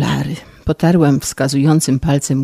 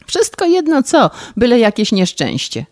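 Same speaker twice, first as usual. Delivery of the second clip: płaczliwie; 5 semitones higher than usual. Acted.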